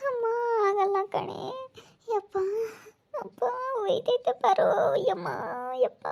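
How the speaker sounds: high, drawn-out moans of burning pain; pained moaning. Acted. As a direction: moan each cry as if it burns. Acted patient moaning from burning pain. (ನೋವಿನಿಂದ ನರಳುತ್ತಾ)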